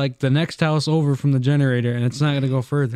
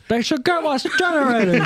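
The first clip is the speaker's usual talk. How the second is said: much higher, put-on Native American meeting accent; mock Native American accent; 11 semitones higher than usual. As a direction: switch into an exaggerated Native American public-speaking accent. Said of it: "Twenty years turns back on the accent".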